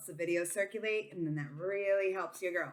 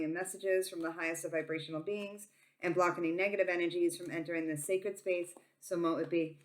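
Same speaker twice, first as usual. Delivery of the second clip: prayer; 3 semitones lower than usual. Acted. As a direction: pray it low and reverent. Opening prayer invocation.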